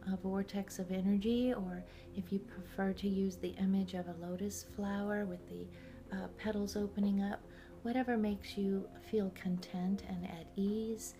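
calm guided meditation voice. Real, not acted. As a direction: guide the listener inward, unhurried.

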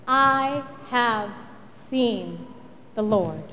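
slow, low, word by word; hushed testimony. Acted. Mary tells everyone of the risen Lord, slow and hushed. Mary's awed news closes the story.

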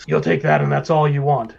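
mildly booming boss. Acted. Horned boss settling payment in coin, mildly booming voice. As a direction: put some boom behind the refusal. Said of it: "it's a really loud, booming voice".

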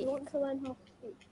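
quick soft copy; fast parrot echo. Pretend. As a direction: rattle it back fast. Pupil echoes fast.

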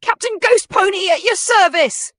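high, loud hearty pirate. Acted. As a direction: boom it out like a pirate captain. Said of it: "striking a pirate pose".

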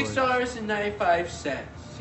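a hint of the high-voiced agent; woman-like guy. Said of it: "this guy who I thought was a woman".

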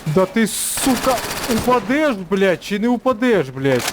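high-pitched frustrated demand; real exasperation, drawn-out opening; exasperated cursing. Real, not acted. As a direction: curse at a stubborn enemy, pitch climbing. Cursing an enemy who won't fall.

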